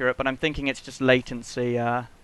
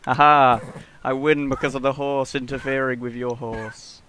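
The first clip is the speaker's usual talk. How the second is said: gloating laugh, then a smug boast; triumphant laugh; 7 dB louder than usual. Real, not acted. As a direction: crow over the win. Gloating win in horse race.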